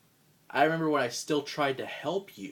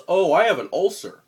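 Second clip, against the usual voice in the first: mocking whine; 4 semitones higher, 10 dB louder than usual. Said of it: "He says".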